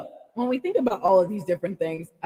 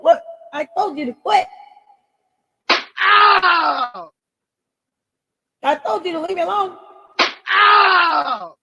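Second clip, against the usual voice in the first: higher, louder fed-up scolding with yelps; mock telling-off; 11 semitones higher, 6 dB louder, slower than usual. Vlogger telling off saboteurs in the comments, mock angry. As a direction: scold them and whoop.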